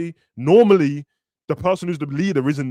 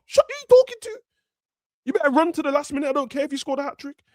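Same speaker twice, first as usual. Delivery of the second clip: captain's mock rant; 11 semitones higher than usual. The captain scolds a hat-trick scorer who didn't run, in a mock yell. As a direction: tear into him like a furious captain. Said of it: "the captain's still screwing at you".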